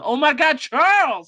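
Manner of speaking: high loud cry of the name; a mother's high yell; mom yelling. Retold or imitated. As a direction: shriek the name in shock. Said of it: "The mom yells out".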